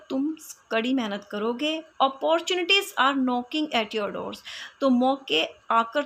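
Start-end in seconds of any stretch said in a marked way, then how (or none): 2.0-4.4 slow example reading. Shown as a demonstration. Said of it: "example समझेंगे".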